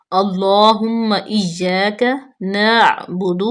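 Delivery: drawn-out recitation, very slow and clear. Shown as a demonstration. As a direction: stretch each syllable like teaching recitation. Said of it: "teacher models recitation". (بہت آہستہ تلاوت)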